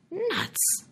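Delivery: a high, scoffing "Nuts!"; scornful snort. Acted. George dismisses the stranger's claim, scornful. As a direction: brush him off with contempt. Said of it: "George snorted".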